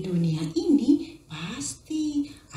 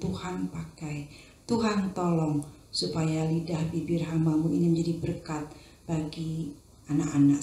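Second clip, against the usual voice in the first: prayer; 2 semitones lower than usual. Acted. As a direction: lead the children in a hushed prayer. Teacher prays before the story.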